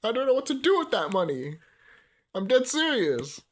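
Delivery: high, loud and giddy; excited squeal. Real, not acted. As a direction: gush about the money excitedly. Streamer fantasizing about the money.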